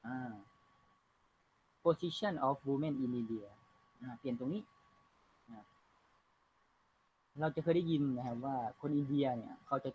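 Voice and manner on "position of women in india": slow dictation reading. Shown as a demonstration. Teacher reads text aloud.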